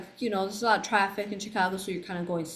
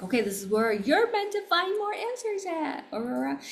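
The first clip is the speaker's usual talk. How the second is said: divine guidance voice; 9 semitones higher than usual. Retold or imitated. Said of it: "They're like".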